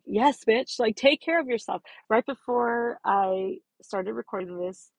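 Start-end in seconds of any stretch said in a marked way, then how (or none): 0.0-1.8 a hint of a pep-talking yoga teacher, higher and louder; lightly voiced sassy self-affirmation; inner yoga teacher. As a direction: cheer yourself on like your inner yoga coach. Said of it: "yoga teacher in my ass".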